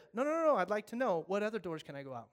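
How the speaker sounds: loud, high refusal, then fast; stubborn. Acted. Congregation stalling the firefighter, stubborn. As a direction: argue like a difficult customer. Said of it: "congregation stalling".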